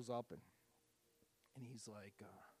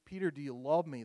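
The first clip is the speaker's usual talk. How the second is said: louder, pressing Peter, do you love me; the question that breaks him, said louder; emphatic third asking; 2 semitones higher, 9 dB louder than usual. Retold or imitated. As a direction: lean in hard on the third time.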